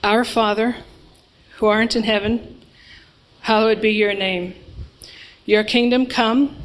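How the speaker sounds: steady spoken Lord's Prayer, evenly paced; group prayer. Acted. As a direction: lead the congregation through the prayer, steady and even.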